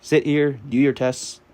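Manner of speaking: hammed-up drill-style prep instructor; bossy prep tutor. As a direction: boss the kid into his seat, slowly. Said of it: "it was like".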